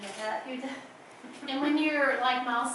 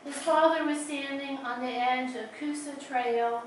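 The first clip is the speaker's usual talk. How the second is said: measured poetry reading with pauses between phrases; lingering on line endings; poem reading; slower than usual. Acted. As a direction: read your poem aloud in unhurried, deliberate phrases. Reads own poem aloud.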